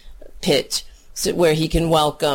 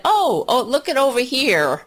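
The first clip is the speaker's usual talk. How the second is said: excited call; 6 semitones higher than usual. Retold or imitated. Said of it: "Even when I said".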